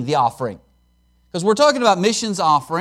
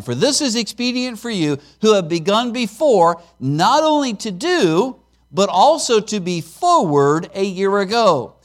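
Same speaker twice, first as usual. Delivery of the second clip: scripture reading. Acted. Preacher reading verse ten to congregation, deliberate.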